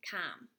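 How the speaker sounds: com said "kahm", rhyming with Tom; com with open vowel. Shown as a demonstration. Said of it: "it's saying com".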